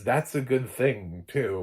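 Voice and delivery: slow, lightly hammed-up storyteller aside; mock narrator. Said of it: "into an actual just narrator".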